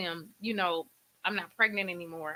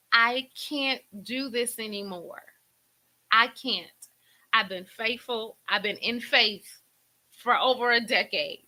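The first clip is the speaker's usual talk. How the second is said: raised, emphatic retold plea; near-tears pleading; 2 semitones higher, 4 dB louder than usual. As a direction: act out giving up before God, close to crying. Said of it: "Oh, I feel like crying".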